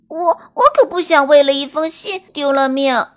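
panicking bunny stammering; anxious stammer. Acted. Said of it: "跳跳兔急了".

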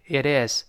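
"it is" run together as one word; linked words. Shown as a demonstration. Teacher shows learners the linking, joined-up "it is". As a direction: join the t of "it" onto "is". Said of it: "连读变成".

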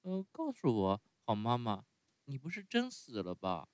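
高一些的童声，亲昵地问; 像孩子依偎着妈妈那样问; 亲热地问. Acted. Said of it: "亲热地看着仙女问道". (用稍高的童声亲热地问)

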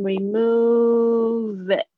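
slow "remove it" with the v running into it; linked remove it. Shown as a demonstration. A teacher slowing "remove it" to show the linking. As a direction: join "remove" and "it" smoothly, slowly. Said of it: "它就有一个连音".

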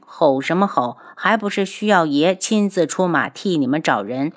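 sulky muttered complaint; grumbling under breath. Acted. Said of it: "暗哼了一声". (暗自嘟囔，低声不满)

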